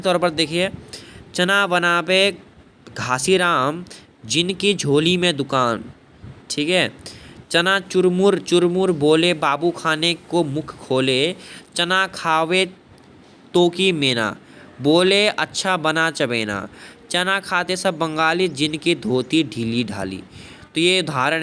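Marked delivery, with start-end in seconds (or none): 1.3-5.8 slow, measured reciting of a comic verse; slow sing-song poem reading; poem recitation. Shown as a demonstration. Teacher recites example poem. 7.5-20.2 slow, measured reciting of a comic verse; slow sing-song poem reading; poem recitation. Shown as a demonstration. Teacher recites example poem.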